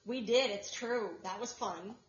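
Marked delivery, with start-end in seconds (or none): 1.2-1.9 dry, sarcastic "fun". Real, not acted. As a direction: say it sarcastically, not meaning it. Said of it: "And that was sarcasm".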